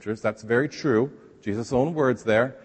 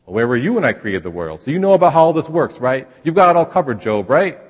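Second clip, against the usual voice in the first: louder, challenging rhetorical questions; forceful God; 2 semitones higher, 7 dB louder than usual. Pretend. God confronting Job, louder and challenging. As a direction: press Job hard, rhetorically. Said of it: "a rather forceful message".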